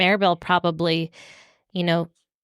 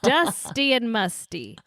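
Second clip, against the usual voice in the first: blocked nose, stuffy voice; stuffed-up nose; slower than usual. Real, not acted. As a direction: talk through a stuffed-up nose. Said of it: "I'm, like, so stuffed up".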